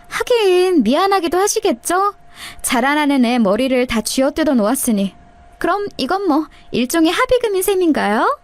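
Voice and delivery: mocking sneer. Sister-in-law mocks the narrator.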